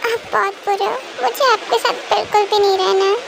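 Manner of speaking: put-on sulky child voice. Cookie complaining to her daddy that nobody loves her, sulky child. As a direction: sulk like a scolded small child. Cookie sulks after scolding.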